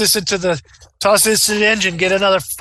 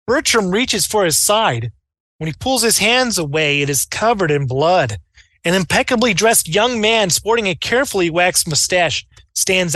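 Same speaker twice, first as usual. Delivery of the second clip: dramatic narration. Acted. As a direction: build the tension line by line. Game master dramatic scene narration.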